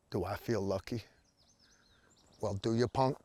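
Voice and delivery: menacing movie cop growl; Dirty Harry impression. Famous .44 Magnum movie monologue.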